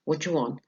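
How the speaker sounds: "What you want" run together as "whatchu-want"; fast-speech reduction. Shown as a demonstration. Teacher repeating the fast form, contracted question. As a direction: slur "What you" into one word. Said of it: "in fast speech".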